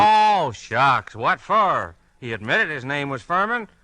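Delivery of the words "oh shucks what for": loud exclamation. Acted. Wally defends himself loudly.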